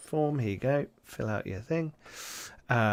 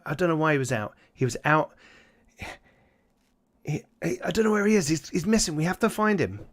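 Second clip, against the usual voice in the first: panicked father; 5 semitones higher, faster than usual. Acted. Father reports missing son.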